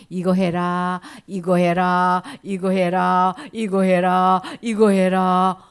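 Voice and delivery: loud, steady commanding voice, slowing at the end; repeated commands. Acted. God listing commands to the young man, loud and insistent. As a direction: bark each order the same.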